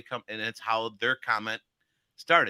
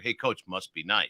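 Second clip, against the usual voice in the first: slower and lower, "Hey, Coach, must be nice" dragged; slow low take; 7 semitones lower, 4 dB quieter, slower than usual. Shown as a demonstration. Coach contrasts a slow low must be nice. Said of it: "You hear the difference in my voice?".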